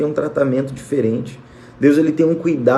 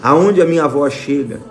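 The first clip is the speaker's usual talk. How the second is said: fervent prayer. Acted. Pastor praying over his live audience, fervent prayer. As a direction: pray it out to God, building gently.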